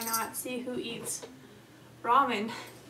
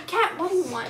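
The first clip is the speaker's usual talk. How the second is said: calling out; 5 semitones higher, 8 dB louder than usual. Real, not acted. Calling to someone off camera.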